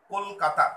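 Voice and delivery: "কলকাতা" with its three parts "কল-কা-তা" marked; divided into syllables. Shown as a demonstration. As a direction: lightly separate "কল", "কা" and "তা" in "কলকাতা". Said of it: "কতগুলো ভাগে উচ্চারণ করছি".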